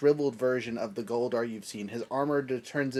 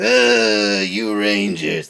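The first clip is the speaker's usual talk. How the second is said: deep put-on voice, dropped low; 4 semitones lower, 11 dB louder than usual. Voicing a dying villain after asking for reference: Goldar voice. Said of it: "the Goldar voice".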